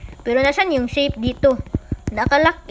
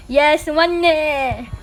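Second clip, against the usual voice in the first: gleeful; much slower than usual. Acted. Gloating over the loot.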